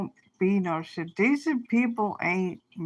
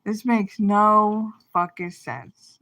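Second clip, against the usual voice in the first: going off. Retold or imitated. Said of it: "and I just went off".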